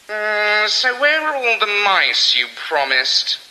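a sulky cat demanding; grumpy cat. Acted.

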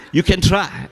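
high, loud, through laughter; laughing. Real, not acted. Man joking about his forgotten pin, laughing as he talks. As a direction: toss it out mid-laugh.

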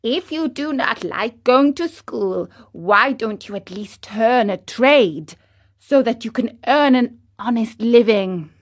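even, patient advice; the wise cricket undeterred; calm cricket. Acted. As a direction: keep the same steady tone. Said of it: "continued in the same tone".

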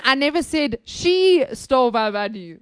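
"she" singled out; stress on she. Shown as a demonstration. Showing someone else was blamed, stressing "she". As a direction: hit the word "she" firmly. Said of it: "I said someone else stole my money".

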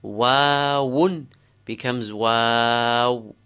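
Wawun and wow with a long drawn ah; extended alif. Shown as a demonstration. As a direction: stretch the ah between the w sounds in wow. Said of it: "there's an alif in between".

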